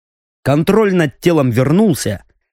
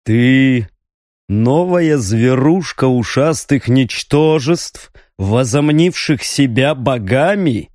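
growling demon voice. Acted. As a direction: let the voice sink into a growl. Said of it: "голос императора становился ниже".

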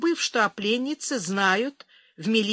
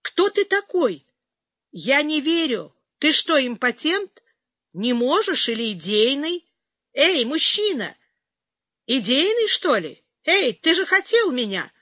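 much higher, loud shout through a door; 5 semitones higher, 5 dB louder than usual. A narrator's reading. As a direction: yell after him in angry disbelief. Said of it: "кричала пленница из-за двери".

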